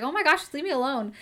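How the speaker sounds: playfully acted irritation; mock annoyance. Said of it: "getting annoyed at him".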